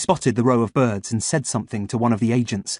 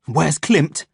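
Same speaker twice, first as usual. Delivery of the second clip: growl; 4 semitones higher than usual. Acted. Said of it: "I growled".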